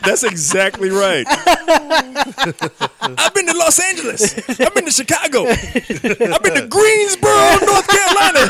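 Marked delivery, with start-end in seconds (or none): 1.3-8.5 high, slow drawn-out promo; wrestler promo voice. Retold or imitated. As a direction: stretch each city like a wrestler. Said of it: "they would always say some random shit".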